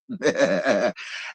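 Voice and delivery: low chuckle; real, amused laugh to oneself; short laugh at your own confession. Real, not acted. Laughs at own cliffhanger admission.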